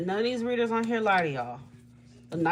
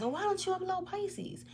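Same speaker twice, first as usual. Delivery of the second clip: higher, softer mock viewer voice; imitated viewer question; 12 semitones higher, 6 dB quieter than usual. Reader imitating viewers asking for Pisces readings, higher and softer. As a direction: put on a light pleading fan voice. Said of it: "that's why people ask".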